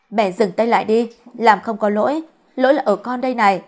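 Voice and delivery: mild acted outcry; urgent, understated plea to stop; helpless cry. Son begs mother to stop hitting his beloved, helpless cry. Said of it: "anh đành gào lên trong sự bất lực".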